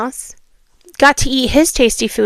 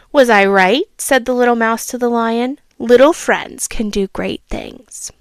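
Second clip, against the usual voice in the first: storybook reading voice; a child reading a fable aloud; story narration. A narrator's reading. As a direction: read it like a bedtime story. Reads fable ending.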